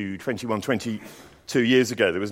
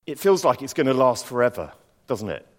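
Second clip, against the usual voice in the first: gentle knowing question; doctor's sympathy. Retold or imitated. Doctor on the phone to a sick friend, gentle. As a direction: ask it kindly, like you understand. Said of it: "And he just said very calmly".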